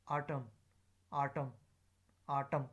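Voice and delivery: "autumn" loud on the first syllable, schwa in the second; schwa in weak syllable. Shown as a demonstration. Teacher drilling weak forms, "autumn" ending in schwa. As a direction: hit the start of "autumn", reduce the end. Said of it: "here is a schwa sound, weak form".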